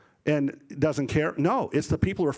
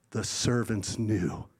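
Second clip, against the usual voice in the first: ordinary talk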